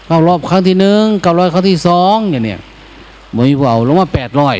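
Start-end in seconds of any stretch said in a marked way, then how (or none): 0.1-2.2 auctioneer. Retold or imitated. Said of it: "ถามสามรอบ".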